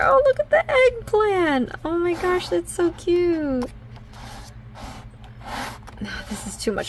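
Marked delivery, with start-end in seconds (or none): 0.0-3.7 high, gushing squeal of delight; overly excited. Real, not acted. Showing viewers a cute crochet eggplant, she squeals excitedly. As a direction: coo over it, much higher. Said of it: "I'm getting overly excited".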